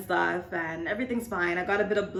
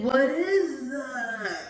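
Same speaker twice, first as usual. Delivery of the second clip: imitating him; 6 semitones higher, much slower than usual. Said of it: "He's like".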